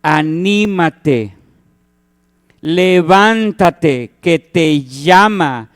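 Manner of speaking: very slow, coaxing; reassuring call; encouraging. Retold or imitated. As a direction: urge him gently to get up. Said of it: "qué fue lo que le dijeron".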